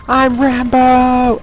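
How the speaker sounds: high, slow, yelled battle cry as a crazed marine; screaming marine. Retold or imitated. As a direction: bellow it like a Rambo wannabe soldier. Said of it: "He's just screaming constantly".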